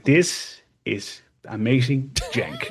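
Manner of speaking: soft, slow, through a laugh. Retold or imitated. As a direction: laugh it out softly. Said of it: "And I was like".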